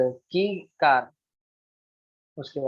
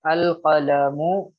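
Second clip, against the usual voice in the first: अल कलमु drawn out, slow and louder; slow wrong form; 4 dB louder, much slower than usual. Shown as a demonstration. Teacher points out the students' mistake slowly. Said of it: "cancel करिए आप अलिफ लाम".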